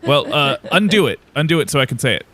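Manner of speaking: a touch of mock indignation; annoyed lookout. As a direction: plead crossly for your moment back. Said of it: "looks down at you with anger".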